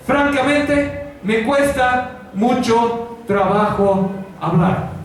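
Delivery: lento y arrastrado, como quien duda; excusa lenta. Retold or imitated. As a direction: alarga cada palabra con desgana. Moisés se excusa ante Dios. (excusa lenta y vacilante)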